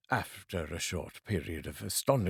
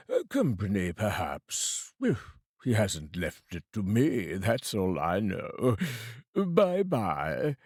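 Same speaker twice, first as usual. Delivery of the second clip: a hint of a bored businessman waving it away; lightly voiced fat man; slower than usual. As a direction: shrug it off like a careless merchant.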